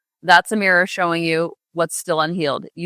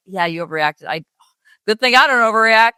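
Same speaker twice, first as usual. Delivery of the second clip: sarcastic; 2 semitones higher, 3 dB louder than usual. Pretend. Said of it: "Obviously, I'm sarcastic".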